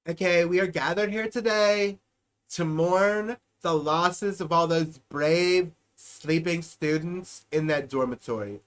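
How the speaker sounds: a hint of a solemn politician addressing mourners; lightly mock a sombre speech at a podium; liberal speech parody. Politician speaking to constituents, lightly mocked solemn tone. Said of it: "I'll say it like a liberal talking to its constituents".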